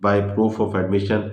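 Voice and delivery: very slow, word by word, as if dictating notes; slow heading read. Shown as a demonstration. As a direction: spell out the heading slowly so students can write it. Reading out a heading slowly. (धीरे धीरे शीर्षक लिखवाना)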